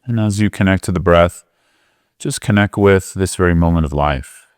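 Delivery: unhurried meditation guidance with long pauses; guided meditation. Real, not acted. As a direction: gently guide them into the breath, leaving space between phrases.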